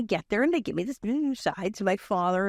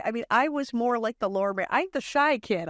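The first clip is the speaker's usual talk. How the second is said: ordinary talk, nothing marked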